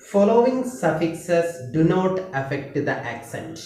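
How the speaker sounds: each word spaced out very slowly for writing down; slow dictation. Shown as a demonstration. Teacher dictating the stress rule to students, slow and spaced. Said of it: "നിങ്ങൾ പിന്നെ റൂളിൽ എഴുതുക".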